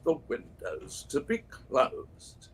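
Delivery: slow, solemn wizard lecture; Gandalf impression. Mock Gandalf lecturing chat on windows, slow and grave. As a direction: intone each word like an old sage. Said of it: "as Gandalf would say".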